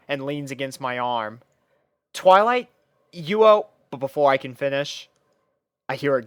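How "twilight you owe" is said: startled call. A narrator's reading. Startled at alien jump scare.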